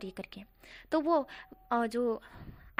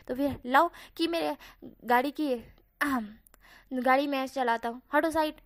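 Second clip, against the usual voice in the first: a bit rude; 3 dB louder than usual. Acted. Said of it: "जन थोड़ा सा rude behave में बोला था".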